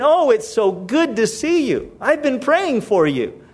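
mock-friendly church greeting; false flattery. Churchgoer greeting someone they resent, falsely flattering. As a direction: lay on mildly insincere niceness. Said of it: "there's this false flattery".

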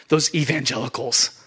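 a scornful huff, then dismissive words; scoffing. Acted. Preacher imitating the world looking at believers, scoffing. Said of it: "and scoff and say".

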